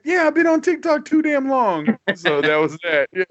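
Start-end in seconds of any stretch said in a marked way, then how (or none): 0.0-2.0 high, worked-up mock wail; retold freak-out. Telling friends what they answered when asked what was wrong, high mock yelling. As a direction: blurt it out high, in mock alarm. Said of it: "You know, I'm yelling".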